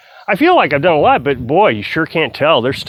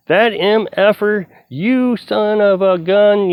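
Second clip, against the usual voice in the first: higher and slow, a mock furious cussing; retold cussing; 6 semitones higher, slower than usual. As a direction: imitate the neighbor swearing at him, dragged out. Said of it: "there went the cussing".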